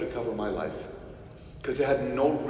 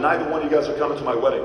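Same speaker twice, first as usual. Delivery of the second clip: blunt refusal; 7 dB louder, faster than usual. Retold or imitated. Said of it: "And I told them".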